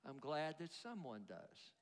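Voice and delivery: soft, low murmur of relief; relieved response. Acted. People answering "Jesus loves you", quiet relieved murmur. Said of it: "a very positive response".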